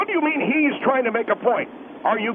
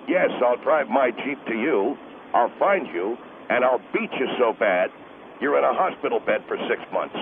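much lower, fast threatening husband; menacing husband; 12 semitones lower than usual. Acted. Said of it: "I'm the husband of the lady".

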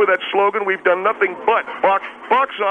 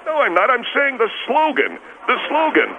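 higher, insisting it's just the slogan; defensive insistence, higher pitched; defensive protest; 6 semitones higher than usual. Acted. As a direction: correct them, affronted and raised. Defensive denial to interviewer.

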